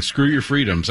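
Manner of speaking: light mock Austrian accent on the quote; a hint of Arnold's Austrian accent; Schwarzenegger accent. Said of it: "If you're gonna do that accent again".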